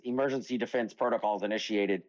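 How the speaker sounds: flat robotic statue voice. Acted. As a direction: say it like a machine. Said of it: "I just made it sound like a robot there".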